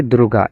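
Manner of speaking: দ্রুগা with a clear voiced g; g kept voiced. Shown as a demonstration. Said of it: "গে এর উচ্চারণটা গয়ের মতোই হচ্ছে". (দ্রুগা, গ-এর মতোই উচ্চারণ)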